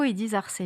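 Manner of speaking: "Arceus" with a soft C, ar-SÉ-us; trailer's pronunciation. Retold or imitated. Host citing the official trailer, "Arceus" with a soft S. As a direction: say "Arceus" with an S sound. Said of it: "dans le trailer vidéo".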